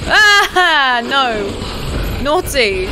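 high loud panicked yells; screaming at a monster closing in; frantic screaming. Real, not acted. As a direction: scream at it to back off. Fighting off enemy, screaming.

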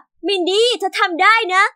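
a slow, drawn-out cheer called from the stands; mild cheering shout. Acted. Friend cheers her on from the crowd, mild shout. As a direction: call out encouragement across the rink. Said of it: "ถือป้ายพร้อมกับตะโกนว่า".

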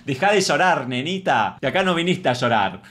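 hammed-up telling-off of a crybaby; mock scolding. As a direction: bark it like a pretend bully. Replays the harsh mock scolding.

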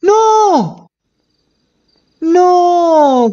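high, loud cry of no; shocked shout. Acted. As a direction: yell it in sudden panic. Sees the deal go wrong.

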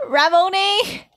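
Ramone as ra-MO-nay, rising; tentative pronunciation. Shown as a demonstration. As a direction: try Ramone in three syllables, ending "nay". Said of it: "it is Ramone".

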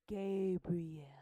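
breathy hushed whisper of the name; hushed reveal of the angel's name. Shown as a demonstration. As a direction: whisper it like a secret.

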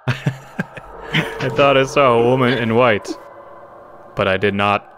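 slow, stilted imitation of a dull reading; mock emotionless voice actor. Player parroting the game's tape recording, mock emotionless. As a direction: mimic the wooden recording, slowly. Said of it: "he had no emotion in that voice".

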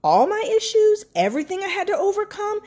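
rising, rushed alarm at the idea; half-acted shock at God's request; retold panicked disbelief. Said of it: "This book was almost like".

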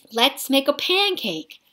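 put-on high, excited little boy; eager boy. A narrator's reading. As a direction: beg for the pancake happily.

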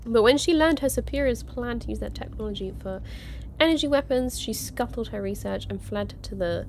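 lightly narrated card biography; reading aloud. Real, not acted. Streamer reading a game trading card aloud, narration. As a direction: read it out like a character profile.

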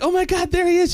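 very high mock Australian gasping delight; hammed-up Australian falsetto; bad Australian accent. Actress spots the man watching her class, bad Australian accent. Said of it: "worst Australian accent I've ever heard".

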